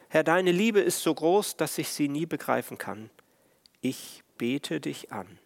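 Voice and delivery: solemn, measured hymn reading; hymn recital. Acted. Pastor reading a hymn verse to the congregation, solemn. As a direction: read the verse like a prayer.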